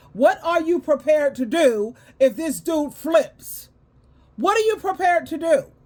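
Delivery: heated, worked-up, insistent, pressing voice. Ranting about people lacking common sense, pressing a pointed question; yelling. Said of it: "Sorry, I'm yelling".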